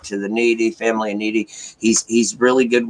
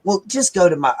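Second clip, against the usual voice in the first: fake frustration; 8 semitones higher than usual. Son fakes annoyance at his mom, mock frustrated. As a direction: pitch jumps up, acting fed up with mom. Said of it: "I was acting all frustrated".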